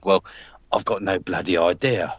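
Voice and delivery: lightly gruff southern-accent impression; Creative Precious Metals. Landlord admitting he has no plan, gruff southern accent. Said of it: "I love your impression".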